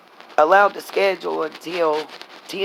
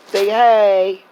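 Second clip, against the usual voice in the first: sing-song pet voice; 3 dB louder than usual. Real, not acted. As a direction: coo at the dog to say hi. Coaxing dog again.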